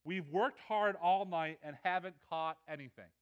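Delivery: loud, punched words of complaint; frustrated arguing. Retold or imitated. Peter answers the Master after a fruitless night, frustrated. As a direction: stress the effort, argue back with frustration. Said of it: "you hear the frustration and the argument".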